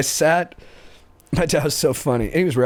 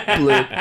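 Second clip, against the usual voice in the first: imitated plop; 4 dB louder than usual. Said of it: "just bloop".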